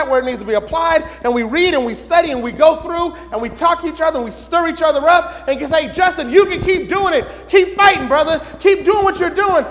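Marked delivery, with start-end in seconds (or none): 5.9-9.7 encouraging brother. Acted. Voicing encouraging church member.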